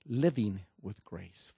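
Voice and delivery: Living with grace repeated slow and firmer; slow repeated title. Shown as a demonstration.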